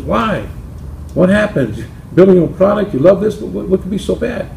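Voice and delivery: a hint of a worried wife asking. Wife questions husband in joke.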